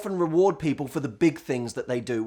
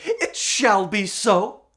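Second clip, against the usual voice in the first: It shall be so drawn out and a bit louder in a put-on accent; deliberate, grave accented vow; slow solemn decree; 4 semitones higher, 4 dB louder, much slower than usual. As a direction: grant the wish like a genie. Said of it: "forgive the accent".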